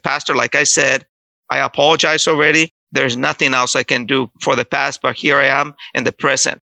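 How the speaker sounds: retold composed standing of ground; changed, firmer voice. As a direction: restate it evenly to the pastor. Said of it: "I changed my voice and I said".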